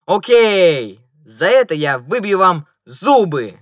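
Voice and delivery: loud, high menacing yell; loud furious threat; threatening. A narrator's reading. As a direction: threaten to knock his teeth out. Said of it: "угрожающе произнёс первый".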